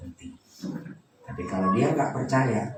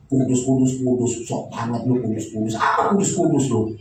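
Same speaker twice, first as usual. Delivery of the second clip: mocking sneer; 4 dB louder than usual. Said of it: "Saya dulu menghina Pak Deki".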